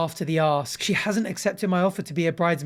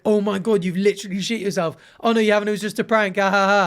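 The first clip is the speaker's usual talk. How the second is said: mock prankster gloat; 2 semitones higher, 3 dB louder than usual. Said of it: "being like".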